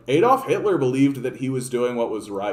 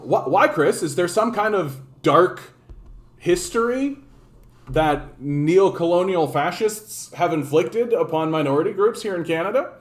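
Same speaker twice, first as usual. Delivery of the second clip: mock-innocent, higher teasing question; teasing a viewer named Chris with feigned ignorance; sarcastic mock question; 4 semitones higher than usual. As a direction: play dumb to needle the viewer. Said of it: "in all seriousness".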